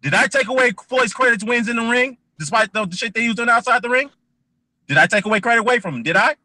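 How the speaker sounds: high-pitched, pressing rhetorical questions; heated insistence. Real, not acted. Host telling E J he is not listening, heated insistence. Talking over opponent, defending himself.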